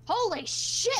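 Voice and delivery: high shocked outburst. Acted. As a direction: blurt it out in shock. Learns today's date, shocked.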